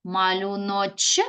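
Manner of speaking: "Малюночки" slowly as Малюноч, long pause, ки; teacher dividing "Малюночки" into Малюноч... ки; another word split. Shown as a demonstration. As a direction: break "Малюночки" just before the final ки. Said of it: "можемо поділити іншим способом".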